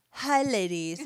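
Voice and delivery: put-on tentative English accent. Podcast host starts reading a friend's note, tentative English accent. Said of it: "say something in an English accent".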